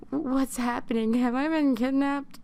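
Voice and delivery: lightly acted alarm of a waking captive; mild panic. Panicking captive's quote in story.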